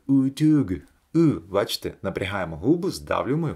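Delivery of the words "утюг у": English accent. Shown as a demonstration. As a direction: say утюг like an English speaker. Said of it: "по-англійськи це б звучало як". (утюг з англійським акцентом)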